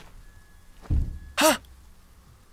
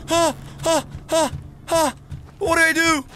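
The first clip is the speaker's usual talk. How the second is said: much higher, loud terrified yelps; shrieking ah ah while fleeing; panicked screaming; 4 dB louder, slower than usual. Real, not acted. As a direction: scream and gasp in real terror. Chased by monster, screaming.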